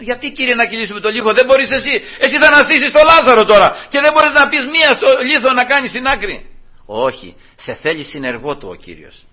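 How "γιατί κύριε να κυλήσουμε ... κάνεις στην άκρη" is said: higher-pitched protesting questions; mock protest. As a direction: challenge the Lord, voice climbing high. Acted protest to the Lord. (διαμαρτυρία με ανεβασμένη φωνή)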